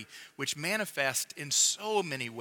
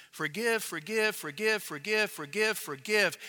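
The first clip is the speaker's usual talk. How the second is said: six forgives, higher and louder, each ending in a rise; emphatic repetition; 6 semitones higher, 5 dB louder than usual. Shown as a demonstration. Preacher drumming home the six infinitives, raised and urgent. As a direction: pile up forgive, urgent and insistent. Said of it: "Six infinitives".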